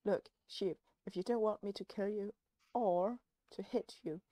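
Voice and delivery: threatening shout. Acted. Threatening the sheep in game.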